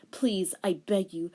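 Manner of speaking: whispered plea. Acted. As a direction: beg in a whisper. Boyfriend begs.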